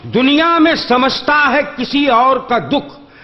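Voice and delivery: measured, lingering verse delivery; poetry recitation. Acted. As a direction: recite each line slowly for effect. Mushaira couplet recital.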